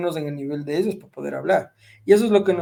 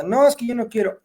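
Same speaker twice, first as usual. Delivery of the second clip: higher, lightly imitated child refusal; five-year-old nephew; 6 semitones higher than usual. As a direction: imitate a little boy refusing. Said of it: "mi sobrino de cinco años".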